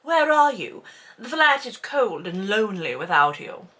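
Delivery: mopey guilt-trip voice; sulky needy whine; passive-aggressive. Retold or imitated. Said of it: "the passive-aggressive thing".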